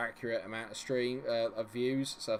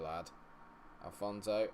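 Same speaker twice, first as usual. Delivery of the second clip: ordinary delivery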